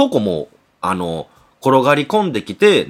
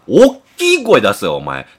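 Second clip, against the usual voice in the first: a gruff dad snapping orders; scolding father; 4 dB louder than usual. Retold or imitated. Father scolds chef to speak up.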